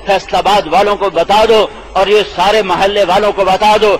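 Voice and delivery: chanted call and response, Quran slowed each time; preaching refrain. Acted. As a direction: preach it with rising fervour. Rising rhythmic sermon refrain. (جوش بھرا واعظانہ انداز)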